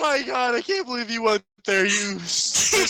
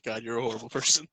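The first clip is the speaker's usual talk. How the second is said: out of breath; 8 semitones lower than usual. Real, not acted. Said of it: "Let me catch my breath".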